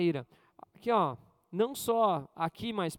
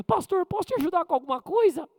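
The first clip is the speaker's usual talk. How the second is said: put-on helpful young woman; 9 semitones higher, 7 dB louder than usual. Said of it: "eu lembro que a Carlinha".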